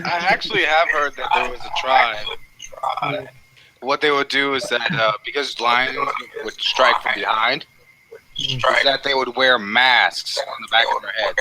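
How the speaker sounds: glitchy mic, robot-like; robotic feedback. Real, not acted. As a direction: voice with robotic echo. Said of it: "you have some weird feedback".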